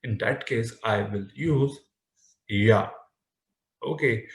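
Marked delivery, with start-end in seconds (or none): 2.5-2.9 ya, the Spain way with a y sound. Shown as a demonstration. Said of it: "if I am from Spain".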